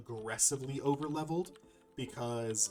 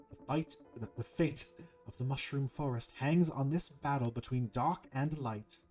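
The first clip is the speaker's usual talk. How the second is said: measured, formal serpent voice; troubled serpent; 3 semitones higher, 4 dB louder than usual. Acted. Cursed serpent confides his nightmares to the hero, solemn and measured. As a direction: recount the curse with solemn deliberation.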